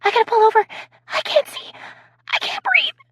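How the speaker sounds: high, breathless, helpless laughing; can barely get words out for laughing; crying with laughter. Acted. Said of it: "sounded as though she was crying".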